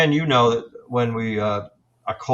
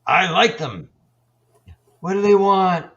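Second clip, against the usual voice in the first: high, drawn-out mimicked spirit; high-pitched impression of a ghostly guy; 7 semitones higher, 4 dB louder, slower than usual. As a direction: imitate a chatty spirit, pitched up and stretched out. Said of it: "another guy says".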